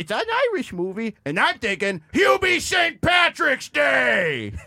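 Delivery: Adam Sandler impression. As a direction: play a silly Adam Sandler caller. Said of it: "Adam, welcome to Young Guns".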